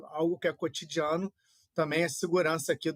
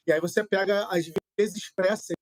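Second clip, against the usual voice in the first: choppy breaking-up connection; buffering stutter; 3 semitones higher, 4 dB louder than usual. Real, not acted. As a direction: audio cutting in and out. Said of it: "sua conexão tá picotando bastante". (conexão picotando)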